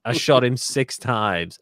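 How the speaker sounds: slow, drawn-out, emphatic delivery; emphatic film quote. Acted. Host quoting a film line, slow and emphatic. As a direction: stretch each word out with force.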